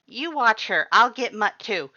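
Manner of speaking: high, loud hurried orders; urgent Papyrus. A narrator's reading. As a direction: snap out instructions.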